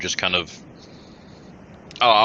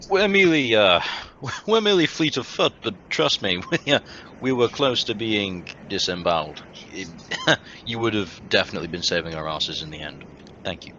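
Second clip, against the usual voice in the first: honey words. Acted. Player flatters the wary town guard with honeyed words. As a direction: lay the charm on thick with a giggle. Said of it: "I will pour on the honey words".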